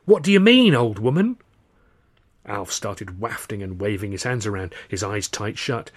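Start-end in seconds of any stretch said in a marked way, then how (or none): 0.0-1.4 panicked. Acted. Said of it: "he goes".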